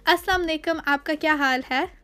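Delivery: said the native Urdu way; Urdu pronunciation. Shown as a demonstration. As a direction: greet in natural Urdu. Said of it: "In Urdu".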